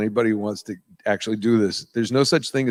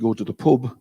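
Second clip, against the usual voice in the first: pub with a Mancunian vowel; light Manchester accent demo; a touch of Northern English. Shown as a demonstration. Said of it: "up in Manchester".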